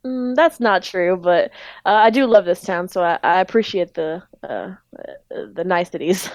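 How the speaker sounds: lightly southern grocer; polite small talk with a hint of southern accent; Speed's southern accent. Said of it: "I know he had a southern accent".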